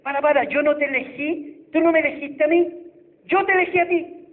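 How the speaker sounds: lightly voiced Jesus correcting the proud believer; voice of the Lord. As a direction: proclaim it as the Lord speaking. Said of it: "Y el Señor nos dice".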